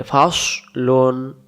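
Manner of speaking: ফাস লুন drawn out slowly with a heavy, thick s; thick, rounded sad. Shown as a demonstration. Teacher showing the letter sad, ফাস লুন with a thick rounded s. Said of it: "সদ অক্ষর মোটা করে".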